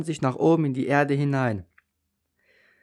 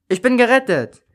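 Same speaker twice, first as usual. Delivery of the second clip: high, louder shout of joy; joyful cry; 8 semitones higher, 6 dB louder than usual. A narrator's reading. Child rescued on the swing cries out in joy. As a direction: burst out with relief. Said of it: "rief ich voller Freude".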